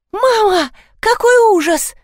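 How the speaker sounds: high squealing shriek; shriek of horror. A narrator's reading. Narrator sees the dead thing in the basin, high squeal of horror. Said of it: "и взвизгнула".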